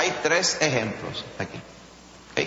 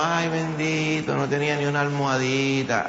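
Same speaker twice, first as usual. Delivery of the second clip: mock pity lament. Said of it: "Si fuéramos puertorriqueños... diríamos".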